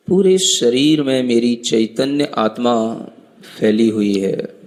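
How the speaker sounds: measured meditation guide with long pauses; calm instructions, spaced out by long silences; guided meditation. Acted. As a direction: guide them inward, phrase by phrase.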